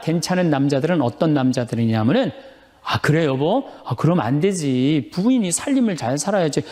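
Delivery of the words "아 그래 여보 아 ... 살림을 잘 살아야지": husband playing along, lightly acted; mock sympathetic agreement. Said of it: "추임새를 넣어주고".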